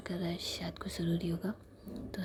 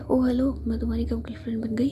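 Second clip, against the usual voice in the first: indignant; 4 semitones higher, 8 dB louder than usual. Acted. Savi indignant at girlfriend claim.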